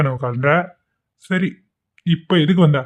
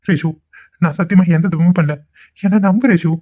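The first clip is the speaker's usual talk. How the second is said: higher, pleading put-on innocence; fake pleading; 3 semitones higher than usual. Vikram pleads with Reshu, faking hurt innocence. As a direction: whine like a wronged lover to win her over. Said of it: "இப்படி drama பண்றானே".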